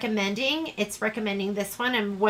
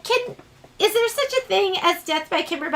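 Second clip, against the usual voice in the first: mock plea; 8 semitones higher than usual. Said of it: "I'm like".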